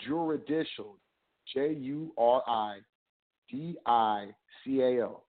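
Juridical spelled J U R I D I C A L, slowly letter by letter; slow clear spelling of Juridical. Shown as a demonstration. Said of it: "Check it out".

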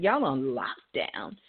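low, slow whisper. Retold or imitated. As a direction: whisper it slowly to your son. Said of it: "I said".

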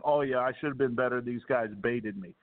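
quick, dismissive mock of the apology. Host mocking a TV anchor's apology, rushed and sarcastic. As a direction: rattle it off like a hollow excuse. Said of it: "when I heard his apology saying".

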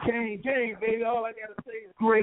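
caller far from the phone; distant, off-mic phone voice; phone held away. Real, not acted. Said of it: "talking to your phone".

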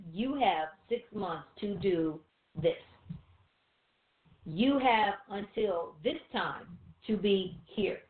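slow, weighty divine decree; measured, non-negotiable command with deliberate pauses; emphatic declaration. Acted. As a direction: lay down a deadline word by word. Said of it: "It is an emphatic declaration".

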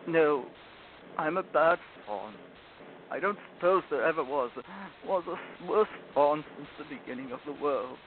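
acted miserable fawn, halting; tearful self-blame. Sobbing fawn blames himself to Lucy, miserable. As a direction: lament with breaks between phrases.

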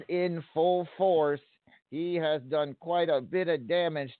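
brisk play-by-play call; wrestling commentator. Acted. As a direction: call the match blow by blow. Calls the match play by play.

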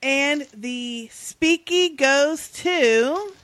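very slow, drawn-out announcer build-up; mock awards host teasing the winner. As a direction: stretch every word for suspense.

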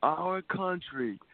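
a light Trump voice, slow on our country; hint of Trump rallying the crowd; Trump impression. Host closing his Trump bit, lightly voiced Trump slogan. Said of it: "that sounds pretty good as a Trump man".

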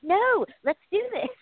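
mock gung-ho let's do it; eager refusal. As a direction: brush it off, ready to go. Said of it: "you're like".

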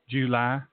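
July said the southern way, JOO-lie drawn out. Shown as a demonstration. Host showing listeners how the south says it, "July" drawn out. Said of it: "As we say down south".

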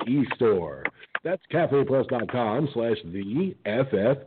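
upbeat hammed-up sales pitch; cheesy ad read. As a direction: sell the mug like a radio ad. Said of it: "cheesy plug over".

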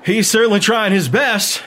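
wheezy, beaten fighter voice; wheezing. A narrator's reading. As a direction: wheeze the words out.

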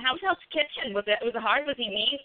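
imitated Jersey accent, nosy questions. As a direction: pester like a bartender in a mock Jersey accent. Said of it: "in the Jersey accent".

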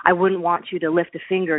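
mildly mocking retold jibe; sarcastic. Husband calls back to wife as he leaves, mildly sarcastic. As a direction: imitate a husband's sarcastic retort.

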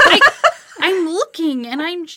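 a flustered mom laughing at her own failure; exasperated, laughing. Retold or imitated. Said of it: "And I was like".

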